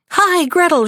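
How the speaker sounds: put-on a witch calling for the girl. A narrator's reading. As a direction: call her name sharply upward. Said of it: "she called to the girl".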